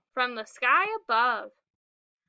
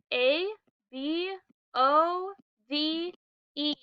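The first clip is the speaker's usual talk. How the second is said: letters "B O V E" said slowly, one at a time; spelled out slowly; slower than usual. Shown as a demonstration. Teacher spelling the word slowly for the class. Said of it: "We spell above".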